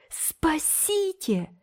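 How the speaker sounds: long, high panicked call; captured boy crying out; cry for help. A narrator's reading. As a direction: wail for rescue as he is grabbed. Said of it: "крикнул Томык".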